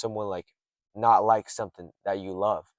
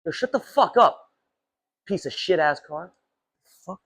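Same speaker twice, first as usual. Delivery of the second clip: much higher, louder furious shout; angry yell; 9 semitones higher, 4 dB louder than usual. Real, not acted. Vlogger shouting at the loud car behind him, furious. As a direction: snap at the noisy car.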